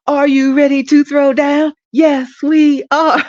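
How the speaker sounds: high, loud soulful cheer, laughing as it ends. Pretend. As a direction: belt the cheer with soul, cracking up. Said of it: "I gotta do it with more soul".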